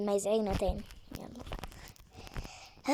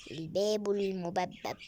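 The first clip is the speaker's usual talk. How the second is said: whisper; 5 semitones lower, 6 dB quieter, much slower than usual. Real, not acted. Whispered slow complaint.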